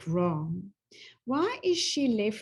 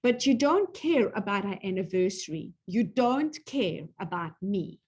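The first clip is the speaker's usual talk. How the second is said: wounded accusation. Acted. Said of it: "Renee really got into that".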